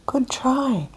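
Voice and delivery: yelled cheer. A narrator's reading. Butterfly and Beetle cheering grumpy Bull Ant, mock whispered yell. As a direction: cheer him on in a hushed yell. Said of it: "Butterfly and Beetle both yelled".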